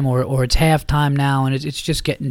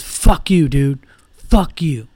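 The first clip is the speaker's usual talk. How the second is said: put-on drunk insult; 4 dB louder, much slower than usual. Drunk insulting old man.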